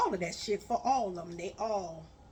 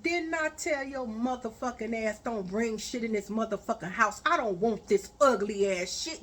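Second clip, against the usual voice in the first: angry telling-off. Retold or imitated. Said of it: "I said".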